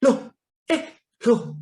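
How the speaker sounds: halting, retold yelps of disbelief; startled cry. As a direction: imitate someone suddenly startled. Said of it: "tiba-tiba dia teriak".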